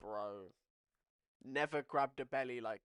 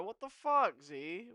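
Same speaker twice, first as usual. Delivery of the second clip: high, loud, exasperated; can't believe he deleted it; outraged disbelief; 6 semitones higher, 9 dB louder than usual. Real, not acted. Yelling at the chat about Zerka, high loud outrage.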